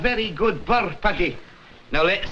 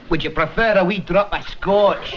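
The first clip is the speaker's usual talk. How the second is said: put-on Scottish accent; 3 dB louder than usual. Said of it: "Our clan comes from Edinburgh".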